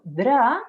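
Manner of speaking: "dra" drawn out, D into R; DR replacing trill. Shown as a demonstration. Speech therapist voices what children think, drawn-out DR. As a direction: stretch "dra" as a stronger-sounding try at R. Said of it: "estoy haciendo como un sonido más fuerte".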